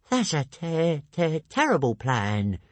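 high moaning little dragon with a stutter; stammering moan. A narrator's reading. Toothless objecting to Hiccup's plan, stammering moan. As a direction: moan it, stuck on the first syllable. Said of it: "moaned Toothless".

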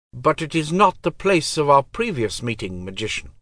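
high, cold divine voice; goddess voice. Acted. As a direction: speak as an aloof goddess. Goddess speaks to Pug.

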